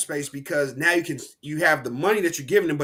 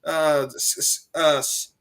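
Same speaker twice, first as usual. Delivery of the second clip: higher, hammed-up huckster pitch; snake oil salesman; 6 semitones higher than usual. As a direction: pitch a miracle cure to suckers. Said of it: "selling niggas some elixir".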